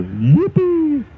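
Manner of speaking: high, squeaky mock cheer; mock yippee. Announcer mocking glee over night jets, high squeal. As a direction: squeal it like a delighted kid.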